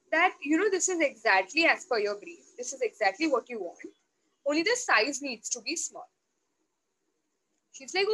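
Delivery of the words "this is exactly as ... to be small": a touch of sweetness, a little lower, coaxing the teacher; sweetly and nicely. Retold or imitated. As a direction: sweet-talk it gently, as if asking a small favour. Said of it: "I said it very sweetly and nicely".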